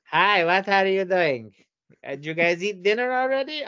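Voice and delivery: sweetly fish for an invite; mock mother on the phone; mimicking the mother. Mother calling on phone, voiced.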